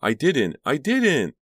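loud, high repeated denial; frantic, hysterical cry; screeching. A narrator's reading. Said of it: "Karina screeched".

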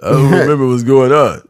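put-on slurred, lost old boxer voice; confused old Rocky. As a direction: play a punch-drunk old fighter.

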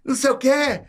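high, excited retelling voice; squeaky friend voice; imitating Helder. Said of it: "aí o Helder contando".

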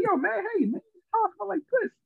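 high, exaggerated mock Indian accent. Guy at the table griping about the piss smell, hammed-up mock Indian accent. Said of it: "he did it in his little accent".

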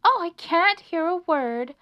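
high, loud storybook scream. A narrator's reading. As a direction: shout over the traffic noise. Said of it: "screamed Melissa".

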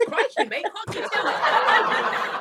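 put-on joking Aussie accent; mock Australian, breaking into laughter. Host asks if it's English, joking Australian accent. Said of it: "I'm from Australia".

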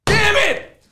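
high exasperated cry; frustrated yell. Real, not acted. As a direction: let out real frustration. Heated quarrel on air.

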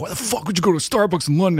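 mock incredulous scolding. Retold critics scolding tourist.

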